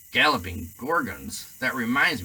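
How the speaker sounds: booming giant's exclamation; hearty, loud half-giant; Hagrid voice. Acted. Hagrid bursts out.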